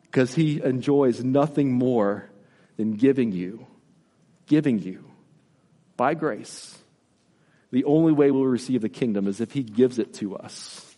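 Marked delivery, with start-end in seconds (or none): 0.1-6.8 tender. Real, not acted. Tender aside, laugh, then softer.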